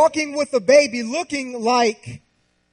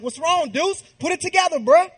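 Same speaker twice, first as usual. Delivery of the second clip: put-on higher, coaxing voice for the baby; higher, playful voice to a baby son; higher baby talk; 6 semitones higher than usual. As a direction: sweet-talk the baby, pitched up. Dad talking to his baby.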